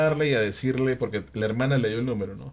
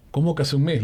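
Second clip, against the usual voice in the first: higher, incredulous question; retold disbelief; 5 semitones higher, 3 dB louder than usual. Driver questioning the dead passenger's sister, retold disbelief. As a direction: act out being thrown by impossible news.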